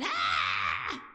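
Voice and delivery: imitated scream of a hollering child; short mock scream, not full volume; child's scream. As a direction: mimic a kid's open-mouthed "ah" scream. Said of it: "children hollering, screaming".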